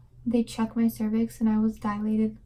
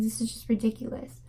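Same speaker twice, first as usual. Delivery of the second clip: softer, whispered disbelief; exasperated whisper; 6 dB quieter, faster than usual. Retold or imitated. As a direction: mutter it under your breath in disbelief. Exasperated by repeated needle pokes.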